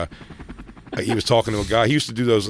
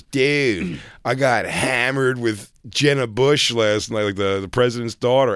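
put-on drunk bar guy; 4 semitones higher, slower than usual. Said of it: "And this guy goes".

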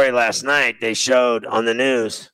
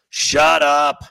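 exasperated shout; 3 semitones higher than usual. Real, not acted. Ranting at anti-vaxxers.

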